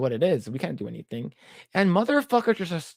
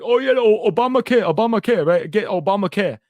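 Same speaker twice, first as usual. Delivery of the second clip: higher and louder, gushing; mock excited dad; 5 semitones higher, 7 dB louder than usual. Storyteller imitating his dad cheering Obamacare, higher and louder.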